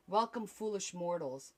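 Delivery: dark lord. Pretend. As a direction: greet the mortals like a villain. Spooky greeting, slowed.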